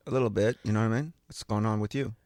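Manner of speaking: put-on New York accent. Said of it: "you sound like you're from New York".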